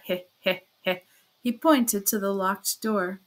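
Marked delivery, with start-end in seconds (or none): 0.0-1.0 sly chuckle. A narrator's reading. Porfiry's written sly laugh.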